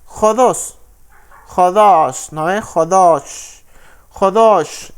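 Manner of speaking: Jodos said again and again as "HO-dos", first syllable stressed; repeat jodos. Shown as a demonstration. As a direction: drill Jodos slowly for the class. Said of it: "Esa es la pronunciación de la palabra".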